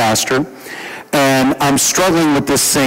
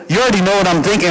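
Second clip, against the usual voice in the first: fast, higher-pitched grumble; irritated complaint; 5 semitones higher, much faster than usual. Retold or imitated. Pastor retelling his complaint to God, irritated. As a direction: rattle it off in exasperation. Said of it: "So now I'm irritated".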